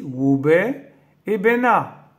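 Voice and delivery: Wobé et Bena said Creole style, R dropped; Creole names. Shown as a demonstration. Reading the Creole spellings aloud to viewers, R left out. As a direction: say Wobé with a W for Robert and Bena with no R for Bernard. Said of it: "se prononcent et s'écrivent ainsi".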